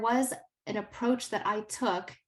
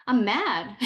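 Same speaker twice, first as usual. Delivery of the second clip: imitating an angry student; 3 semitones higher, 7 dB louder than usual. Student voiced in retold talk.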